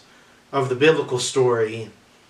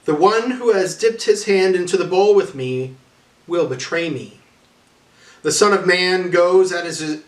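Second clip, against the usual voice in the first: raised, solemn warning, slowing to the end; Jesus foretelling betrayal; 4 semitones higher than usual. Acted. Jesus warns the disciples at supper, raised and solemn.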